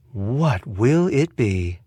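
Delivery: slow, word-by-word question; taunting ultimatum. Acted. Bomber makes the detective choose, slow and taunting. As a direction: space it out to press for an answer.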